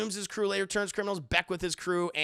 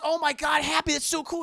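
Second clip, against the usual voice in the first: high, loud fanboy gush; mock thrilled teen; 9 semitones higher, 8 dB louder than usual. Imitating Peter seeing his new suit, high excited gush. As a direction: gush like an overjoyed kid.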